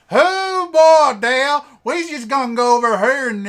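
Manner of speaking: high, loud caricature Southern hick; Southern hick accent. Shown as a demonstration. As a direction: holler like a cartoon Southern hick. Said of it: "your standard kind of Southern hick accent".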